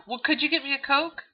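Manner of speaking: a hint of a casual neighbor calling out; asking a friend. Acted Texas soda-run chat.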